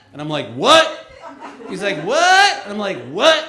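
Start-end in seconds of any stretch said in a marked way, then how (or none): 0.5-0.9 short, loud, high retort; New York redneck. Acted. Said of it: "New York redneck". 2.0-2.6 very high, loud questioning yelp; cartoon hillbilly. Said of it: "cartoon hillbilly". 3.1-3.4 short, loud, high retort; New York redneck. Acted. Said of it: "New York redneck".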